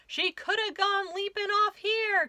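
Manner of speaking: loud, high shout from a searching crewman. Acted. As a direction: call it out across the mountainside. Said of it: "came a shout".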